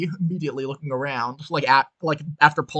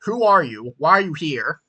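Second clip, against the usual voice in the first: demanding questions; 5 dB louder than usual. Acted. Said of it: "And he's like".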